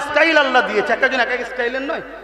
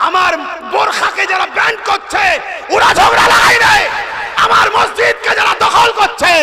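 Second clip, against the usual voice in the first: shouted, much higher and louder; full-force preaching; 7 semitones higher, 5 dB louder than usual. Acted. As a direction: roar it out to the crowd. Peak of fiery sermon.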